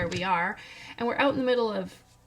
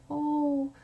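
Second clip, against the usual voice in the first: higher-pitched mock concern, drawn out at the end; imitating sympathetic visitors; 5 semitones higher, slower than usual. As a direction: coo with exaggerated sympathy. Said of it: "like, sympathetic".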